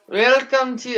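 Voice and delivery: a hammed-up, slow Russian accent greeting; mock Russian accent, badly done. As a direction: put on a clumsy Russian accent to say hello. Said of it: "that's a horrible Russian accent".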